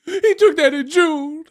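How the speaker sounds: high, loud, slow whiny mock voice; nasal-free squeaky parody of a fan. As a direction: drag it out like a sulky fan. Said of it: "they're like".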